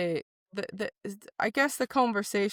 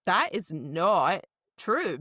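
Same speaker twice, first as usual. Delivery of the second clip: emphatic rebuttal; much slower than usual. Retold or imitated. Acted firm rebuttal to a judgement.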